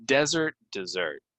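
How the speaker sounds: "Desert" stressed on the first syllable, "dessert" on the second; word stress demo. Shown as a demonstration. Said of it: "Stress goes here".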